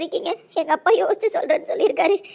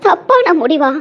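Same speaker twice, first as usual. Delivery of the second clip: hurt outburst; 8 dB louder, slower than usual. Acted. Hurt by being called wrong.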